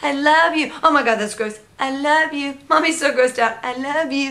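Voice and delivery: grossed out but doting; mock disgust with love. Mom changing a messy diaper, disgusted yet loving. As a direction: alternate grossed-out groans with sing-song I love you. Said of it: "I was like".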